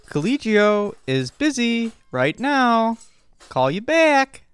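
put-on Boston accent. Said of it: "kind of Boston accent at the end".

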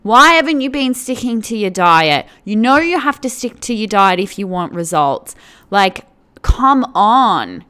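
a personal trainer nagging about the diet; pushy trainer. Retold or imitated. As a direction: drive the client on, gym-coach style. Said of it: "It's like that".

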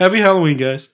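fake friendly greeting. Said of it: "you wave the parents on the sidewalk".

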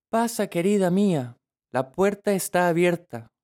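put-on high, kind old woman; granny voice. A narrator's reading. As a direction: welcome her like a sweet grandma. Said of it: "contestó la abuela". (voz de abuelita dulce)

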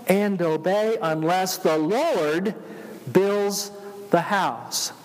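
slow, prayerful recitation; reciting hymn lyrics. Acted.

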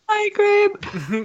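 high, breathless through giggles; after laughing hard. Real, not acted. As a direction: still laughing hard while greeting. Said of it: "I'm crying laughing".

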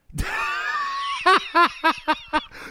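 big high laugh bursting out; loud burst of laughter. Real, not acted. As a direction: cackle out loud at the joke. Guest laughs about dirt crabs.

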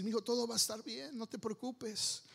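put-on soft reassurance to a child; gentle retold comforting; calming father. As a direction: soothe your little son, softening at the end. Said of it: "trato de calmarlo y decir".

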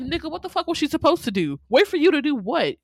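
loud, high indignant challenge; mad, retold. Viewer telling off Justice for blaming Rita, indignant.

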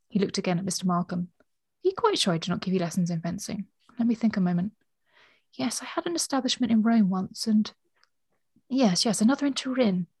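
measured storybook reading with lightly voiced dialogue; story narration. A narrator's reading. Co-host reading a novel passage to the other, measured narration. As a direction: read the passage out, letting the characters speak.

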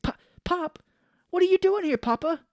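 very high-pitched son voice; mock bewilderment. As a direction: question Pop in hammed-up disbelief. Son retold meeting his dead father.

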